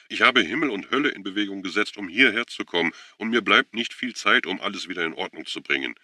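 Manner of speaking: high, loud, frantic plea; overwrought, building to a forceful finish; voice cracking. A narrator's reading. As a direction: pour it out urgently, voice tipping over. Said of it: "Seine Stimme überschlug sich".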